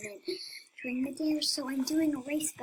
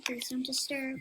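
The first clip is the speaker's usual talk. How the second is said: whispering; 3 semitones higher than usual. Pretend. Playful whispered aside.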